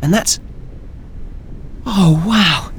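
high, gleeful nasal voice; bubbling with wonder, high; childlike glee. Acted. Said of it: "childlike glee and inquisitiveness".

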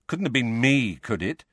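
understated sarcastic question. Acted. Harry needles Ron about guard duty, sarcastic. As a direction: ask it with pointed sarcasm. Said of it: "said Harry sarcastically".

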